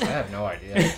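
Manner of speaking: character voice. Acted. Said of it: "in my character voice".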